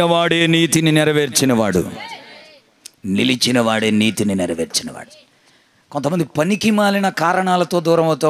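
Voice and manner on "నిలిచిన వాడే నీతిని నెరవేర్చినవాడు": much lower pitch, sinking at the end; low solemn repeat. Real, not acted. Preacher restating the key line to the congregation, low and solemn. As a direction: drop the voice right down to restate it.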